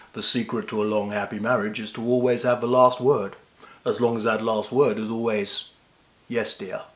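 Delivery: lightly voiced, measured film-star quote; a hint of a suave gentleman; Sir Roger Moore. Husband quoting Sir Roger on marriage, lightly imitated. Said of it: "by Sir Roger himself when he said".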